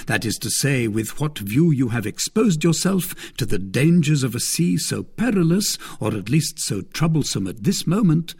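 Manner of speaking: a hint of a smug lord; Lord de Winter. Lord de Winter taunting his captive sister-in-law, lightly voiced.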